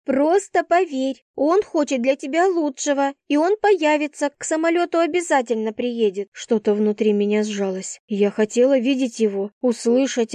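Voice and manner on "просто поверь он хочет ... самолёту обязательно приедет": higher-pitched voice of a pleading friend; reassuring friend. A narrator's reading. Friend promising he will come, reassuring. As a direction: urge her to trust you.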